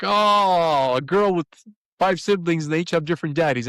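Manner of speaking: taking in the news with a jolt; dawning shock. Retold or imitated. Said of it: "I'm like".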